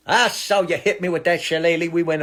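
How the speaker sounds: lightly put-on Irish accent; a hint of cartoon Irish. Comic playing an Irish cartoon stereotype, Irish accent. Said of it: "you can do an Irish accent".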